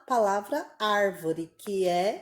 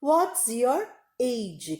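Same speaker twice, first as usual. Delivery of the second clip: slow clear model; 2 semitones higher, much slower than usual. Shown as a demonstration. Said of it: "ao pé da letra também, seria".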